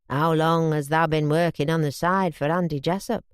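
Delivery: a hint of a low, thick Yorkshire voice; lightly voiced tipsy boss, accusing; drunk Yorkshireman. Drunk Reg confronts Bobby.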